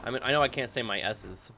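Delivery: talking around Tic Tacs; mouth full. Real, not acted. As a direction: teeth closed on a mint while talking. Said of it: "right now they're in my mouth".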